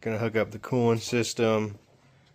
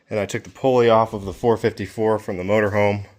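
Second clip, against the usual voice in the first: breathless after heavy work; winded, catching breath between words. Real, not acted. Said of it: "Sorry, I'm out of breath".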